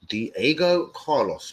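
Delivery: "Diego Carlos" stretched out at half pace; slow emphatic repeat. Real, not acted. Fan pressing the name on his listeners, slow emphasis.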